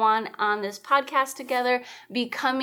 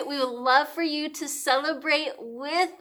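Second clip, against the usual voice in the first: real excitement; 4 semitones higher, 5 dB louder than usual. Real, not acted. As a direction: voice climbing to a high, loud peak. Hyping listeners before confetti poppers.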